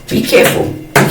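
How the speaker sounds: "Be careful" breathed out in a whisper; whispered warning. Shown as a demonstration. Warning viewers, whispered.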